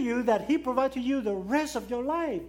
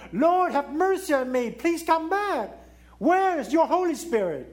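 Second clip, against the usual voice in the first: raised, pleading cry; crying out to God; 5 semitones higher, 4 dB louder than usual. Retold or imitated. David crying out to God for his Spirit, raised plea. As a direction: call out to God, desperate. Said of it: "cry out to God".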